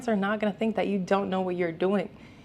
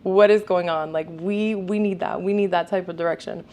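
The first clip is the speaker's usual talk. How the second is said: excited onlooker; 4 dB louder than usual. Retold or imitated. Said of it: "being like".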